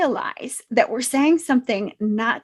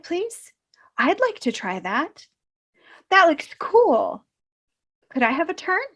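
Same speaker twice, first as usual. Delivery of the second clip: put-on polite child voice. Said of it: "could you say".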